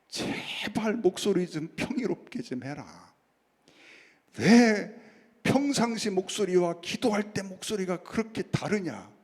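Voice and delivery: retold chiding of a friend, stretched opening words; exasperated plea. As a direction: plead with mock exasperation, hitting the 'why' loud. 친구에게 목소리를 나무라는 말. (친구를 답답한 듯 나무라는 말투)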